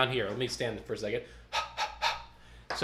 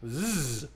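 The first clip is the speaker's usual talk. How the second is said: buzzed z; 4 dB quieter than usual. Shown as a demonstration. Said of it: "check a Z".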